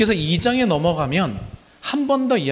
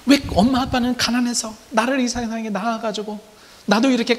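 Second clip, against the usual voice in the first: higher, whiny plea to parents and God; complaining child; 6 semitones higher than usual. Acted. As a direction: play a bitter youth blaming his parents. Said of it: "원망하는 거예요".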